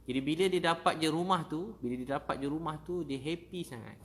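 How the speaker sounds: loud, high burst of excitement; bursting out with joy at the news; excited. Real, not acted. Preacher telling the audience about the new house, excited and loud.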